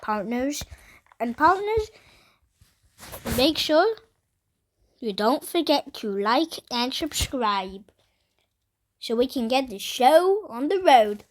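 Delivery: put-on Texas cowboy accent, playful. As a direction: greet the viewers like a Texas cowboy. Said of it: "I'm also in a cowboy voice".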